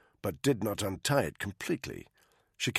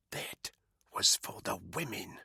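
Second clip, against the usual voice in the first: much softer, low whispered line; 3 semitones lower, 6 dB quieter than usual. Acted. Woman over the strangled body, whispering softly. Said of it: "Caitlin whispered".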